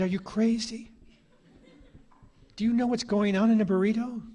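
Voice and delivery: a hammed-up, high shocked retort; incredulous outburst. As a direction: react like he's lost his mind. Speaker's shocked reply to skinhead.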